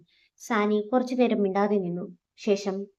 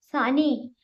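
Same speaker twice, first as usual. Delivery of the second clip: calling her name out, raised and falling; a sharp anguished yell of her name; roared name; 5 semitones higher, much slower than usual. Acted. Adithyan roaring as Saani is shot, a raised shout. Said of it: "Adithyan അലറി".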